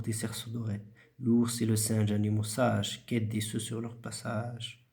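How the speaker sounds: measured recitation, each line starting firm and falling away; teacher's model poetry recitation; rhythmic poem reading. Shown as a demonstration. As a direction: recite the verse musically, respecting the punctuation. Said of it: "une voix rythmique".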